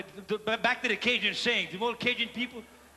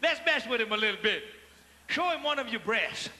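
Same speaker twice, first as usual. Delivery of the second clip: egging on; 4 semitones higher than usual. Retold or imitated. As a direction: push her on, eager and gleeful. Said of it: "She goes".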